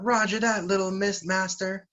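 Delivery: high-pitched acted cheer of assent; eager mock troop yell. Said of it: "And they all yell out".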